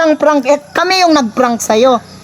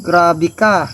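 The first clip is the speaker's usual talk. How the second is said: mock hurt; 5 semitones lower than usual. Brother acts hurt that they have no respect, in mock sulk. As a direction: act betrayed and disappointed. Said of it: "Kunyari lang galit ako".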